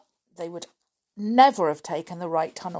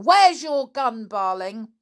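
panicked; 4 semitones higher, 6 dB louder than usual. Acted. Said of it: "yelled Block".

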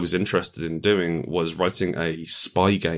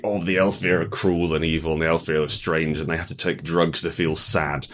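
propaganda voice. Retold or imitated. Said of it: "written as a propaganda piece from the drow".

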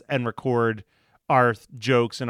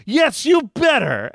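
mock stern; 11 semitones higher, 4 dB louder than usual. Retold bit scolding Weird Al.

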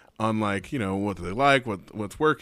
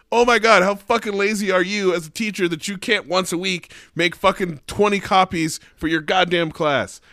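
loud, high furious quote of herself; angry rant; 8 semitones higher, 6 dB louder than usual. Retold or imitated. Teacher retelling her reply to lazy colleagues, loud angry. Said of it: "I was so angry when I read the email".

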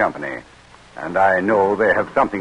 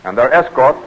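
measured, formal announcer read; radio drama narration; 3 semitones higher than usual. A narrator's reading. Announcer introducing the Delaware story, formal narration. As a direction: set the historical scene like an old radio narrator. Narrator resumes scene setting.

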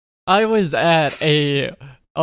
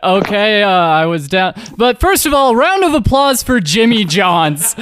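emcee hype; 3 semitones higher, 4 dB louder than usual. Retold or imitated. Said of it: "be like".

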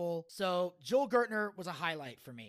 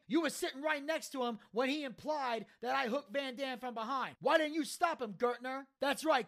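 berating; 5 semitones higher than usual. Retold or imitated. Taz berating Joel.

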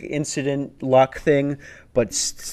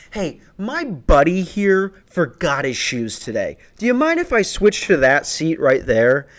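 dad voice; 3 semitones higher than usual. Retold or imitated. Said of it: "I immediately turned into my dad".

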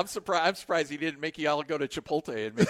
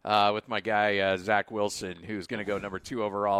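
lower, offhand bragging into the phone; casual phone call voice; 6 semitones lower than usual. Pretend. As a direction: talk like a big shot on a call. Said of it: "you know, taking a phone call".

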